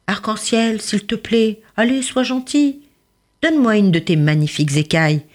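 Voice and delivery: high pleading little fish voice; lightly voiced begging little fish. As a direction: coax sweetly for a scale.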